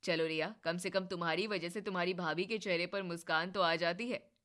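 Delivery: lightly voiced husband, teasing surrender; husband's voice. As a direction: give up playfully to sister and wife.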